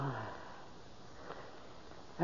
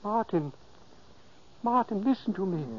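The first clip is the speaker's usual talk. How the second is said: soft, hushed call; gently reaching into a sleeper's mind; speaking softly; 3 semitones higher, 6 dB quieter than usual. Acted. Ghost softly calling to sleeping Martin, hushed. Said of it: "I spoke softly".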